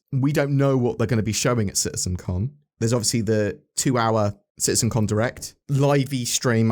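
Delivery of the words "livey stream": "livey stream" drawn out slowly; mock word livey. Shown as a demonstration. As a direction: stretch "livey" jokingly. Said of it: "I say livey stream because".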